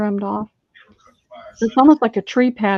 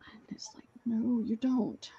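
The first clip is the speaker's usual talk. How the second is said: inner voice; 6 dB quieter than usual. Retold or imitated. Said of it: "I keep thinking".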